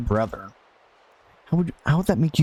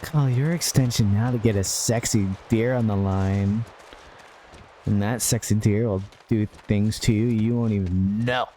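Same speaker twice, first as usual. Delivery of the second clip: smooth cheesy commercial read; mock hotline ad; 2 semitones lower than usual. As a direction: pitch the sexy deer line like an ad.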